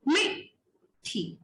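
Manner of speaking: मिठी drawn out slowly, syllable by syllable; slow teacher's sounding-out of मिठी; demonstrated pronunciation. Shown as a demonstration. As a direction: say मिठी slowly with a break before the last syllable. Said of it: "इसको हमने pronounce कैसे किया?".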